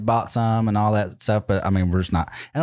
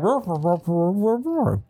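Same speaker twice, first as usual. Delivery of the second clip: rising mock roars, building higher; huge fiery dragon roar; 8 semitones higher, slower than usual. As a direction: roar it out like a beast, climbing. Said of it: "It was more like".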